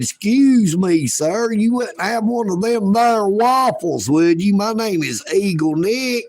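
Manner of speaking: mild hillbilly asking politely for a waffle; a hint of a humble hillbilly. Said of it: "this old hillbilly come riding a bicycle".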